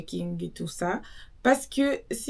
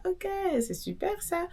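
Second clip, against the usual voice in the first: mock amazed; 11 semitones higher than usual. Retells own surprised reaction.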